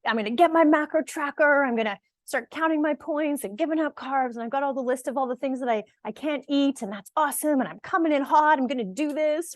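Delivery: playfully mocking go-getter pep; gung-ho mock enthusiasm. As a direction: ham up the all-in fired-up newbie. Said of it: "We're like".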